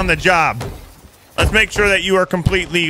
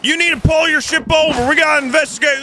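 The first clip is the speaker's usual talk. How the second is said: raised, official lawman voice stopping a ship; mock sheriff; 5 semitones higher than usual. Sheriff hails a pirate ship: hammed-up lawman voice. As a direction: play the small-town sheriff hailing a boat.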